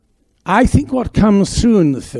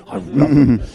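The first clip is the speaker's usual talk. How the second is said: impression of a grand actress; imitating Dame Margaret; 3 semitones lower, much faster than usual. Actor repeats Dame Margaret's answer to coffee, mimicking her. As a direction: mimic a many-chinned old actress. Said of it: "She had a lot of chins".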